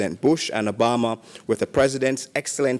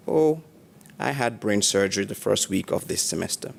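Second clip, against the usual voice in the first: quoting her calm, matter-of-fact reply; calm, even-toned; 2 semitones lower than usual. Retold or imitated. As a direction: report it evenly, a touch understated. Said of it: "in a calm and even-toned voice".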